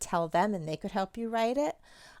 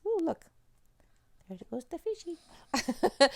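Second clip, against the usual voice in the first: high, slow, delighted "ooh, look"; a sing-song puppet show voice for kids; playful puppet voice; 11 semitones higher than usual. Pretend. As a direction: make the fishy swim with glee. Playing with a fish puppet.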